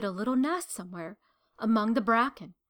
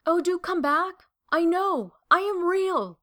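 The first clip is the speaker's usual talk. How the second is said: higher and louder calling after them; 7 semitones higher, 4 dB louder than usual. A narrator's reading. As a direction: call out after the fleeing rabbits. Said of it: "called the little rabbit".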